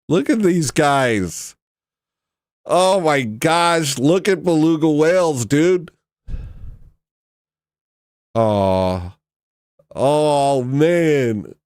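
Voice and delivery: slow high delighted gush at belugas; gushing over cute whales. Real, not acted. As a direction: coo at the screen like seeing puppies.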